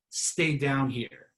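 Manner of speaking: slow, drawn-out, settled voice; steady, very slow demonstration of staying low. Shown as a demonstration. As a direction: bring it down and stretch each word calmly. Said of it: "Stay all the way as low as you can".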